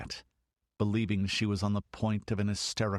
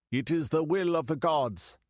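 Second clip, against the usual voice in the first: higher, ringing, leaning on will; exalted priest; 7 semitones higher, 3 dB louder than usual. A narrator's reading. The high priest repeats the goddess's decree, exalted and ringing. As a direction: proclaim it to the faithful. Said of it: "he cried in an exalted voice".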